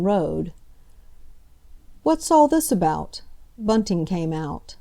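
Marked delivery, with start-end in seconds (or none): 2.0-3.2 startled high question; alarmed, pitched up high; surprised. A narrator's reading. Husband alarmed by commotion.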